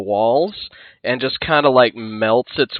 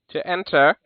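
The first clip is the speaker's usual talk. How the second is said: creature voice; 9 semitones higher, 8 dB louder than usual. Acted. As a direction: boom it out like a crypt guardian. Guardian creature speaks.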